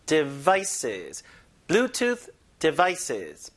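devices drawn out with weight on VI; careful Bluetooth devices, second-syllable stress in devices; stress at the back. Shown as a demonstration. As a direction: model de-VI-ces slowly for learners. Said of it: "해보세요".

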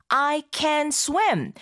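I can swim, each word drawn out slowly; slow, clear teaching read. Shown as a demonstration. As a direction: spell out every word slowly for learners. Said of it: "뭔가 좀 의미가 다르게 느껴지기도 하죠". (학습자를 위해 아주 천천히 또박또박)

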